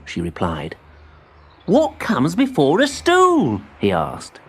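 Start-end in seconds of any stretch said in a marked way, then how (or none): 1.7-3.6 put-on high, eager child-like voice; young tree voice. A narrator's reading. Timbertwig thanks his spider friend, high and eager. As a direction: sound small and pleased.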